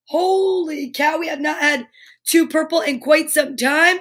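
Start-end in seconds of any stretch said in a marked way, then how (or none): 0.1-1.2 surprised. Real, not acted. Surprised reveal.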